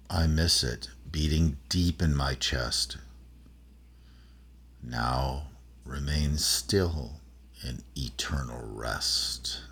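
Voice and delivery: slow, eerie verse in own voice, no witch voice; spooky poem recitation. Acted. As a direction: let each line hang like a ghost story. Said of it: "I'll do it in my voice".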